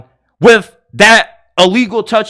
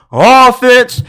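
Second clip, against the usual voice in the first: ordinary delivery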